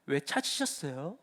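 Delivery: slow, soft, rising 왜 찾으셨어요; cheeky reply. Retold or imitated. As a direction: let 왜 rise, drawn out and innocent-cheeky. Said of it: "이러면은 확 이렇게 되는 것이죠". (천연덕스럽게 느리게 올리는 왜)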